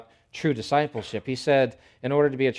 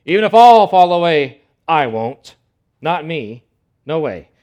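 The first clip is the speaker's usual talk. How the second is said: shouted, pitched-up boast; loud boast; 5 semitones higher, 15 dB louder than usual. Acted. Preacher playing Peter, boasting loudly to Jesus. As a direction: Peter bellowing that he won't fall. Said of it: "What does Peter say?".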